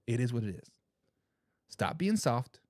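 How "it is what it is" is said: "It is what it is" whispered with no voice, falling at the end. Real, not acted. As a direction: breathe "It is what it is" as a whispered shrug. Catchphrase whispered after taunt.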